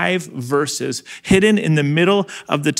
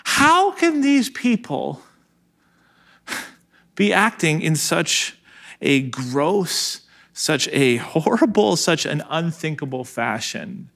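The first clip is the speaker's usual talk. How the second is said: aghast disbelief; slower than usual. Retold or imitated. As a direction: sound appalled at the cruelty, then trail off. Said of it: "there's this piece of me that's like".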